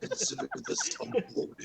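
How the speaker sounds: high whispered mask voice; talking mask. Retold or imitated. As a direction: hiss it like a spooky mask. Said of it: "demonic mask voice from Crash Bandicoot".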